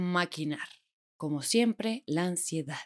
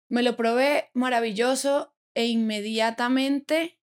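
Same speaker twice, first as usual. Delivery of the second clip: raised, slow, swooning delivery of the fairy-tale version; dreamy gushing; 4 semitones higher, slower than usual. Shown as a demonstration. Bride telling her friends the fairy-tale version, swooning. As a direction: gush it like a movie bride. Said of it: "ah, bueno, mentiras".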